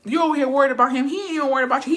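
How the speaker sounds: loud, high, rapid rebuke; retold scolding. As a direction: imitate a brother calling her out. A brother scolds the worried mother.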